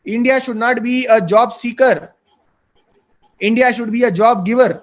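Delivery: slow, deliberate declaration; Narendra Modi, quoted. Retold or imitated. Speaker quoting the leader to young job hunters, slow and emphatic. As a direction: quote it very slowly, straight to their faces. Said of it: "मतलब मुंह पे बोलते हैं".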